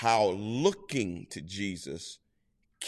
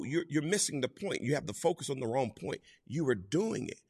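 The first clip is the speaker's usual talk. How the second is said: ordinary talk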